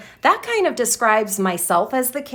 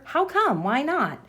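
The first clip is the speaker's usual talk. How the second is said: lightly voiced puzzled reader, higher pitched; high, questioning imitation of a reader; wondering reader; 5 semitones higher than usual. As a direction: ask as a curious reader would, pitched up. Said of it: "the reader would wonder".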